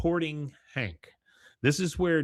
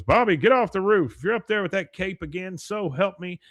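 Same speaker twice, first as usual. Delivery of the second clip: loud, higher scolding; angry dad yell; 7 semitones higher, 6 dB louder than usual. Retold or imitated. Dad yells at his son on the roof, loud and higher. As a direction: bark it up at the roof. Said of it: "He goes".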